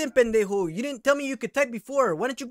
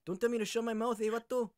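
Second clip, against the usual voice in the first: quiet threat; 2 semitones lower, 10 dB quieter than usual. Acted. Persona warns scammer, low menace.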